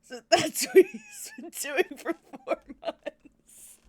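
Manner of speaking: high, loud, drawn-out wail; overcome wail. Real, not acted. Fan overcome by what he's been doing, high wail. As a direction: wail it slowly, half laughing, half crying.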